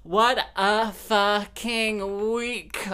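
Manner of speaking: shrieking high and loud with glee; ecstatic outburst. Real, not acted. Host bursting in after her own song, a joyful shriek. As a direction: scream the relief out at the top of your voice.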